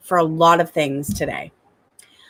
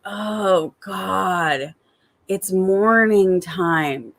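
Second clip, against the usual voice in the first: slow, mock-weary groan; morning dread; much slower than usual. Tired mom waking up to the morning, mock dread. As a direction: drag it out, lightly hammed-up reluctance. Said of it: "instead of being like".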